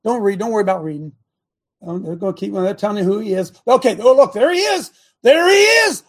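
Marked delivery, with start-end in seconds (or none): 3.7-6.0 higher and louder, mock astonishment at each photo; mock surprise. Real, not acted. Host mocking the court's photos for the viewers, in mock surprise. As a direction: play it up like a sarcastic gotcha reveal.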